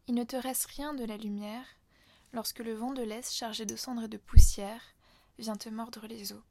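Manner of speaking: measured, deliberate poem recital; poetry reading. Acted. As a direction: read the poem aloud, line by line. Relit des vers du poème. (lecture de poème posée)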